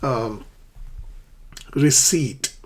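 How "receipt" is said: "receipt" said ri-SEET, no P sound; silent P. Shown as a demonstration. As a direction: leave the P out of "receipt". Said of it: "the word is pronounced receipt".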